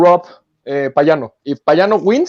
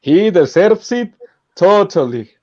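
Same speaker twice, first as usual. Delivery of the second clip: Mauricio storytelling voice; 2 semitones lower, slower than usual. Retold or imitated. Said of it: "cómo Mauricio habla".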